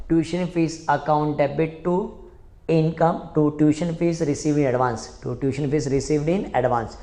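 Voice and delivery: very slow, word-by-word dictation; slow dictation of the entry. Shown as a demonstration. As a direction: spell the entry out for the class. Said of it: "dictates entry slowly".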